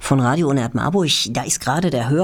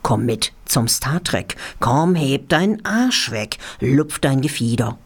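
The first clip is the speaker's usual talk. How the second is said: chant-like rhyming lines, pausing between couplets; rhythmic poem recital. Real, not acted. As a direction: read comic verse with a steady bouncing beat. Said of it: "in Form einer rhythmischen Zuckung".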